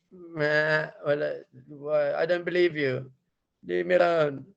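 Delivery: bleat, then protest in a slightly high voice; protesting sheep cub. Acted. Cub to the lion, mildly protesting little voice.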